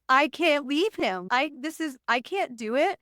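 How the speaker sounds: replaying her own panicked tears, slowly; imitating her younger self, light tearful plea; retold crying panic. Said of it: "I'm hyperventilating, crying".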